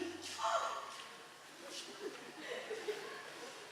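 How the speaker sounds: soft laughing mock gasp; a silly exaggerated gasp; breathy mock gasp. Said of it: "and gasped".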